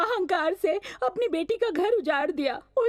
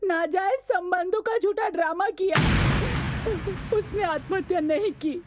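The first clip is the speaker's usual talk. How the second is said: tearful confession. Acted. Confessing her crime publicly.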